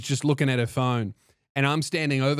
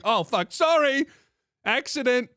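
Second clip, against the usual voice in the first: mock sheepish apology; 9 semitones higher than usual. Apologising to conductor for accidental button press, flustered apology. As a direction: squeal out an embarrassed retold sorry.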